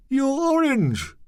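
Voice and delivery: high, slow shocked shout. Acted. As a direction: yell it out in alarm. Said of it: "Michel shouted".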